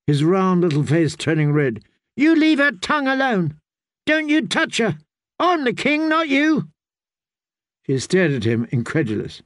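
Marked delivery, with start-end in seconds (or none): 2.2-6.7 put-on a child king shouting in fury; boy's sudden shout. Young king shouting at his mother to defend Margaery.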